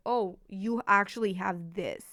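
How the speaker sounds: put-on slow, tender voice of a caring boyfriend; gentle boyfriend voice. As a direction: say it gently, like reassuring her. Boy gently encouraging the girl.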